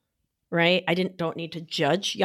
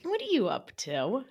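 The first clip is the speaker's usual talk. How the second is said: gently amused question; said lovingly; 4 semitones higher than usual. Shown as a demonstration. Asking herself lovingly, light affectionate tone. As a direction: ask it with affection. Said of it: "I say it lovingly".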